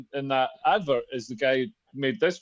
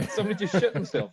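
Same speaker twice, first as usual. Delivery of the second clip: laughing; 3 semitones higher, faster than usual. Real, not acted. Joking about a sudden noise.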